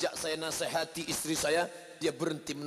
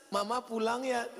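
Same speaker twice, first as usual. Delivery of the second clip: tearful, half-shouted goodbye; hammed-up sob as a mother leaves; mock crying mother; 6 semitones higher than usual. Mother leaving child, crying.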